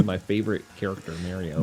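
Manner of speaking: "Mario" as MARE-ee-oh; mispronounced Mario. Retold or imitated. Mocking people who misname their favorite character, "Mario" as MARE-ee-oh. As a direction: say "Mario" with the vowel of merry. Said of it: "people that call Mario Mario".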